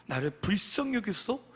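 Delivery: imitated loud appeal for mercy; crying out loudly. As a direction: call out as the blind beggar, half-acted. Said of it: "그래서 큰 소리로".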